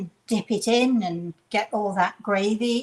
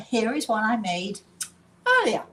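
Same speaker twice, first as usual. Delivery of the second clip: playing TV chef. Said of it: "So, are you ready?".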